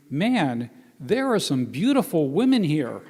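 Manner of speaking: swooping, impressed quote; mock admiration. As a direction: imitate an awestruck young guy, stretching the key words. Acts out admiring young men.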